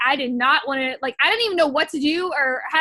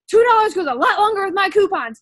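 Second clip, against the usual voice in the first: higher, louder mock-annoyed scolding; mad retort; 4 semitones higher, 5 dB louder than usual. Wife scolding her partner over a pizza slice, mad. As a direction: re-enact an indignant money argument, loudly. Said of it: "getting mad at Zach".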